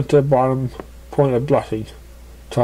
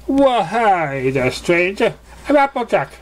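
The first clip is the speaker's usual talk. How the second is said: higher, slow drawled hello; friendly southern welcome; 8 semitones higher than usual. A narrator's reading. Applejack welcoming the visiting pegasus, slow and friendly. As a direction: greet the stranger with country charm.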